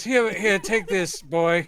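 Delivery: lightly voiced old actor; James Mason. Host passing the jacket to crew, a hint of James Mason. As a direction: hand it off like a grand star. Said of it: "Mason impressions".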